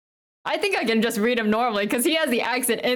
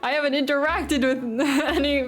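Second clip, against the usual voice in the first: laughing protest; 4 semitones higher than usual. Real, not acted. Defends bad accent, half laughing.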